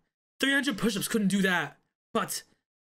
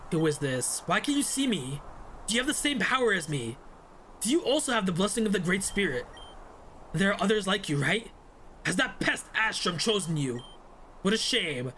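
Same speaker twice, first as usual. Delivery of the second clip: a hint of a sinister villain; lightly voiced menacing spirit; 2 semitones lower than usual. Villain questioning someone who shares their power, understated menace.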